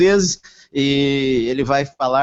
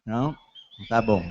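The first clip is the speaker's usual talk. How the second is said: normal talking voice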